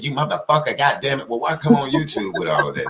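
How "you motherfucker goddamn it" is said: mock cussing out. Shown as a demonstration. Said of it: "raise hell and talk shit".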